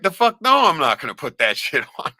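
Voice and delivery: outraged refusal. Retold or imitated. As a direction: refuse with disgust.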